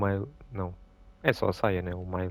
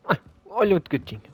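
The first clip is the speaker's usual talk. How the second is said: cooing at kitten; 9 semitones higher, 8 dB louder than usual. Real, not acted. Sees a kitten, coos.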